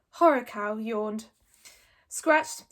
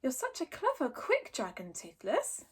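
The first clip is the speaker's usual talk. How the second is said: flattering; 2 semitones higher, 4 dB quieter than usual. Acted. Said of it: "Hiccup flattered".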